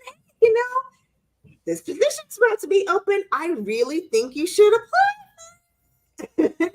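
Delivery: high, slow sugary invite; sweet fake-casual voice. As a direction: put on a sugary office voice. Mock indirect job nudge.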